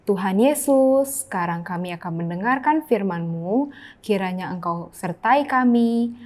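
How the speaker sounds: prayer. Acted. Leads a children's prayer. (doa yang lembut dan pelan)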